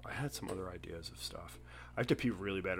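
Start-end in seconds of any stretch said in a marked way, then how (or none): 2.0-2.8 near-whispered, much softer and lower; hushed aside. Real, not acted. Host confiding he needs to pee, in a whisper. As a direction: drop to a private whisper.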